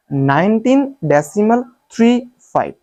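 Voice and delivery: थ्री, फ़ाइव spaced as separate digits; correct reading demo. Shown as a demonstration. Teacher showing the right way, digit-by-digit reading. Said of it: "सही तरीका ये है".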